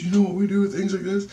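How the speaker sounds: very high leading question; menacing question. Retold or imitated. Lady questions watching teller, high and leading. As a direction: act out her teasing threat, high.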